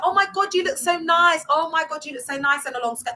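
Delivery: high, gushing mock flattery; hammed-up love bombing; mock gushing compliments. Church members love-bombing newcomer over uniform, high gushing mock.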